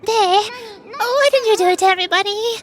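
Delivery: loud demand. Acted. Confronting culprit in game dialogue.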